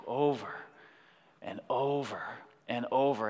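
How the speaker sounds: low, soft and worn out; weary repetition. Retold or imitated. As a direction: let each repeat sink, tired and low. Retelling tedious, exhausting digging.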